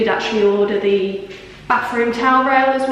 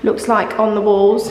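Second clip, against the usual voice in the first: echoey room; 3 semitones higher than usual. Real, not acted. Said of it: "It's really echoey in here".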